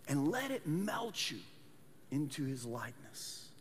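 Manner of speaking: dropping low and soft on the cross; hushed preaching. Real, not acted. Preacher to congregation, softly hushed about Jesus dying. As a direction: let the voice sink to a hush.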